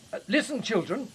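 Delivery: put-on projecting over the train noise to the children.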